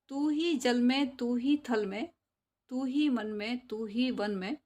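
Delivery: sing-song poem recital for class; poem recitation. Shown as a demonstration. Teacher chanting a Hindi poem for the class, sing-song. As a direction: chant the verse to the pupils.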